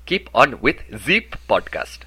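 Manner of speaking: slow French accent, "the" said as "zee"; French-accented demo, turn "the" into a buzzing "zee". Shown as a demonstration. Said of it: "turn your these into Z's".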